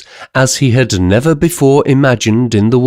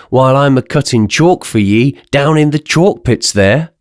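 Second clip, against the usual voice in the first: bewildered giant calling down, raised and rustic; giant's queer voice; 3 semitones higher than usual. Acted. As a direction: call down to the crowd in wonder. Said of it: "His queer voice".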